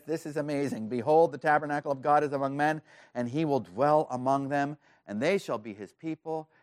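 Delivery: mildly excited, emphatic announcement; excited proclamation. Acted. Preacher re-voicing the throne's news to his congregation, mildly excited. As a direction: proclaim it firmly with a touch of amazement. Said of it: "Whoever's saying this is some excited".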